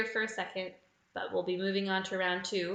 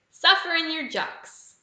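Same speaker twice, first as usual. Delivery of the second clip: put-on higher, louder, slow Australian accent; Aussie accent; 8 semitones higher, 9 dB louder, slower than usual. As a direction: belt it out in broad Aussie. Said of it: "My Aussie accent is not very fun".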